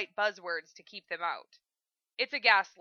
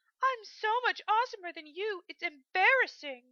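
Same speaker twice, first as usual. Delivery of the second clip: very high, teasing put-on falsetto parody; 11 semitones higher than usual. Narrator reads Stiles' line as he imitates Lydia's voice. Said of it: "using a facsimile of Lydia's voice now".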